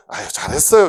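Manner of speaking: quick, hearty compliment; ready praise. Acted. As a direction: praise them brightly, out loud. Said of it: "누가 뭐 하면".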